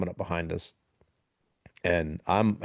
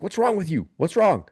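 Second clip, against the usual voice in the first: high, raised-voice demand; retold shout, pitched up; mock urgent yelling; 11 semitones higher, 6 dB louder than usual. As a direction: imitate frantically questioning a casualty. Retold frantic check on wounded soldier.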